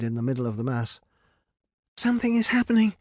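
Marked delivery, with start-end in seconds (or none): 2.0-2.9 high-pitched alarmed shout. A narrator's reading. Rapunzel warns of the swirling mass, shouting. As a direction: call out the warning urgently. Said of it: "shouted Rapunzel".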